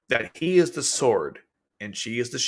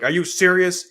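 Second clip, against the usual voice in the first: mock outburst; 3 semitones higher, 4 dB louder than usual. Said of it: "He's like".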